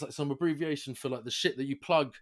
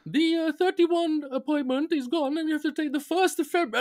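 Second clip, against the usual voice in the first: imitating call agent; 12 semitones higher than usual. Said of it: "Mister Shaw?".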